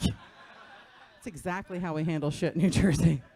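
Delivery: slow, laughing approval; laughing deadpan. Retold or imitated. Comic approving a hammer billboard, slow and laughing. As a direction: savor it with a laugh. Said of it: "I'm like".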